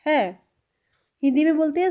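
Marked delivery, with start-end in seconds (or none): 0.1-0.4 अजिहा लगदा है said slowly, syllable by syllable; very slow, spelled out. Shown as a demonstration. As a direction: drag each word out. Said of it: "इसको पंजाबी में बोला जाता है".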